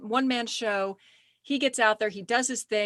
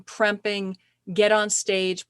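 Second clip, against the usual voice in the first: ordinary talk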